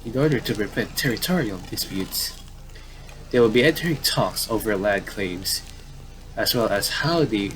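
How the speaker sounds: measured newscaster cadence; lightly played TV newsreader; news anchor read. Reading in-game TV news.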